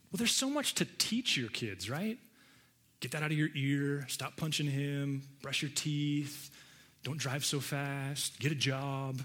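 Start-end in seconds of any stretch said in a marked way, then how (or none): 3.0-9.2 nagging parent. Retold or imitated. Mimics a parent's commands.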